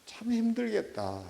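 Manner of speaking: gentle, slow words of sympathy; warm comfort. Shown as a demonstration. 부모가 아파하는 아이를 다독이며, 느리고 따뜻하게. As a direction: comfort a hurting child slowly. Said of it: "이 따뜻한 말 한마디가".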